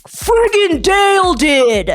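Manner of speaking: mock annoyed. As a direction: spit out the name, fed up. Annoyed Jay voiced.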